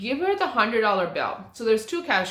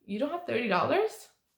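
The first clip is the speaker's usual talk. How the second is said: put-on confused, puzzled tone; 2 semitones higher, 4 dB quieter than usual. Repeating their own earlier question to a woman, retelling a confused question. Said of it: "I was just confused... That was my tone".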